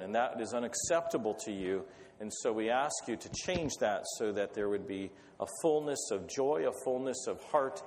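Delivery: earnest spoken prayer, unhurried. Acted. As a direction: pray aloud over the gathering. Opens the meeting with prayer.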